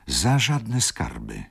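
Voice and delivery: moaning baroness. A narrator's reading. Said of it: "jęknęła pani baronowa". (przeciągły jęk baronowej)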